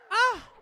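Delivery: short, high, loud "ah!"; sudden yelp. Real, not acted. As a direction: let out a quick sharp cry. Startled outburst during play.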